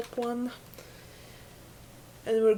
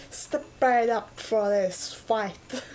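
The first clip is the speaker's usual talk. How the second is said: put-on old TV announcer; slower than usual. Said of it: "old T V announcer".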